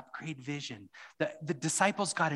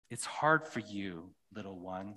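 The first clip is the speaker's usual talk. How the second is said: gentle Aslan; 4 semitones lower, 4 dB quieter than usual. Acted. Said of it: "said Aslan".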